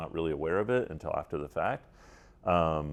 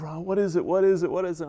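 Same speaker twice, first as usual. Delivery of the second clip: worried asking; 12 semitones higher, 5 dB louder, faster than usual. Retold or imitated. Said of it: "And she's like".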